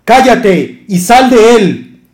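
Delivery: loud, slow, commanding rebuke; stern rebuke. Acted. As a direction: cast the spirit out with full force. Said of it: "Yeshua le reprendió diciendo".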